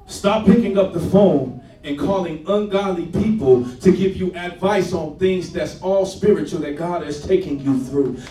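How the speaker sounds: preached loudly with force. Shown as a demonstration. Preacher to church, repeated loudly and forcefully. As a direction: hit it hard this time. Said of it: "repeat, loud preached".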